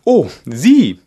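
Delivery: high, loud creature voice; gryphon voice. A narrator's reading. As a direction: scoff like a gryphon. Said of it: "sagte der Löwengreif". (Greifenstimme, hoch und laut)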